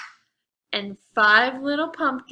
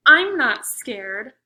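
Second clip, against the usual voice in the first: loud, slow, stubborn insistence; brave protest; 10 dB louder, slower than usual. Acted. Little mummy defying the vampire, loud and slow. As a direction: belt it out to prove he isn't afraid.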